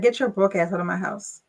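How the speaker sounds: blunt, flat kick-out; mock-harsh eviction; blunt dismissal. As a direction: throw him out without ceremony.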